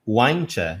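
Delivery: "Why don't you" squeezed into "why-ncha"; connected speech. Shown as a demonstration. Teacher showing what the phrase becomes, reduced. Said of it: "vai se tornar".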